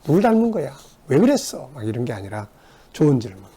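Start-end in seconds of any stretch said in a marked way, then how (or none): 0.0-1.7 mock nagging, pitched high; accusing questions. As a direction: hammer them with blame. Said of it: "막 따지는 질문". (따지듯 높은 톤으로 나무라며)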